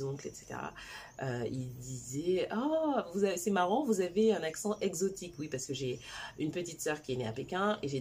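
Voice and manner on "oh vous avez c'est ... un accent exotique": imitating relatives marvelling at an accent; lightly acted amused wonder; mock amazement.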